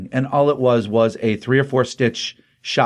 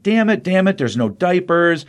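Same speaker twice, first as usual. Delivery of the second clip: frazzled mother; 6 semitones higher than usual. Retold or imitated. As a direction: blurt it out like a panicking new mom. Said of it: "she's like".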